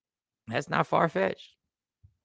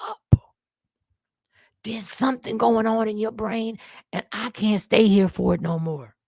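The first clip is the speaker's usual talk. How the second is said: higher, slow, hurt woman near tears; role-playing the woman; 3 semitones higher than usual. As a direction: plead and give up on him, breaking. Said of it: "I'm role-playing the woman saying this to me".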